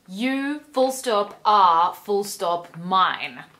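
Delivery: mild mock snarl, slow and deliberate. Christian claiming Anastasia, a hint of a slow snarl. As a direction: lean on each word, possessive and menacing. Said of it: "Actually, he snarls it".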